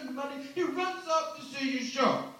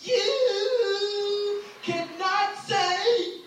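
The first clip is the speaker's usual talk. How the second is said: Bill Cosby angry; 2 semitones higher, slower than usual. Retold or imitated. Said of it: "Bill got pissed".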